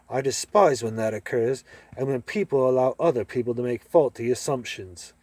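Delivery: lightly put-on British accent, sniffy; understated haughty British accent; mock British gentleman. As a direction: play a snooty British gent with curled lip. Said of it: "his part of the act".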